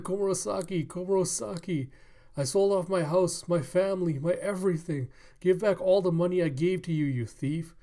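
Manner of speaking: high, loud desperate demand; outraged accusation. Acted. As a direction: accuse her like a ruined, betrayed suitor. Ruined man accusing courtesan.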